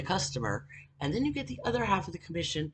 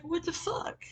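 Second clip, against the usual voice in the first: much higher, stunned disbelief; high incredulous what the fuck; 11 semitones higher, 8 dB quieter than usual. Retold or imitated. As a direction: react like you can't believe your eyes. Shocked at car blocking door.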